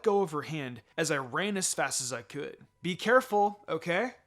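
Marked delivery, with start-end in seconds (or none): 2.8-4.2 mother shouting. A narrator's reading. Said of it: "my mother shouted".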